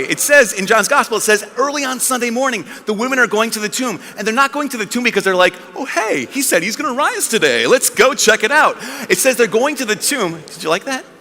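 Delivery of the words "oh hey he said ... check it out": higher, lightly chirpy aside; breezy realisation. Retold or imitated. Women imagined heading to the tomb, breezy and unbothered. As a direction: toss it out like a casual outing plan.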